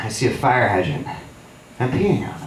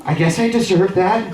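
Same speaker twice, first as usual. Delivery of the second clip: higher voice, rising at the end; high-pitched resignation; 7 semitones higher than usual. Retold or imitated. Soaked by his buddy and giving in, high resignation. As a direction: give in with a high upward lilt.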